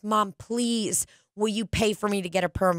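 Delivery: lightly voiced kid begging mom; pleading child. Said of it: "I remember asking my mom".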